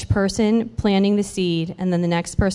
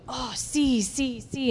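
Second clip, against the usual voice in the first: soft, higher-pitched imitation of a woman agreeing; imitating eager agreement; 4 semitones higher, 9 dB quieter, slower than usual. Retelling the woman answering about her pain, soft mimicked agreement. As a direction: lightly mimic her repeated yes, softly.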